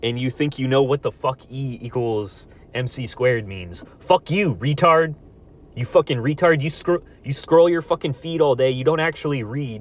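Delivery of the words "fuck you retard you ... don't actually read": higher and louder, spitting insults; real furious shout; furious yelling. Real, not acted. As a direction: yell at them in real anger. Insulting imagined opponent.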